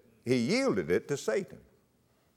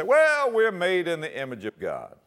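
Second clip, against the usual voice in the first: people protesting; 4 semitones higher, 4 dB louder than usual. Retold or imitated. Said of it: "I hear people say".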